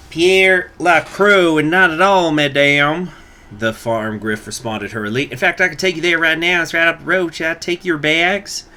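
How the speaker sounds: put-on high, loud French-accented farmer. Farmer greets the new teacher, in a French accent. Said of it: "what the fuck that accent was".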